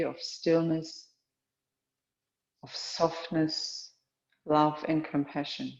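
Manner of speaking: calm, measured yoga-teacher voice with long pauses; guided meditation. Real, not acted. Teacher guiding a yoga class into awareness of breath and heart, calm meditation. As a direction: settle them into stillness, phrase by phrase.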